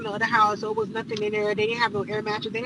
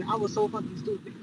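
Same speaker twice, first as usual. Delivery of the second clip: plain; 2 semitones lower, 7 dB quieter than usual. Real, not acted. Regretful aside about herself.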